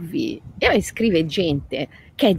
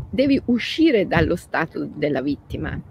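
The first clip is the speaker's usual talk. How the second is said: usual speaking voice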